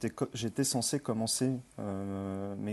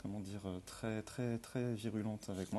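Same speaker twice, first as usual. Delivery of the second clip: shaky, flu-worn voice; quavering, weak voice after flu. Real, not acted. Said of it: "à ma voix chevrotante".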